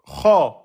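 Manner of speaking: Kha with a full back vowel; emphatic letter. Shown as a demonstration. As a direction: puff the mouth on Kha. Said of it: "On a vu la lettre".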